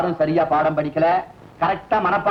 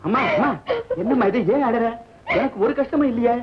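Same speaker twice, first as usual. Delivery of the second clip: concerned; 5 semitones higher than usual. Acted. Consoles the weeping young woman.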